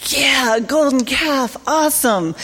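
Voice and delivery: high, bright-eyed enthusiasm, mildly imitated; excited quote. Organizers agreeing to carry the calf, mock-excited. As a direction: chirp it like an eager organizer.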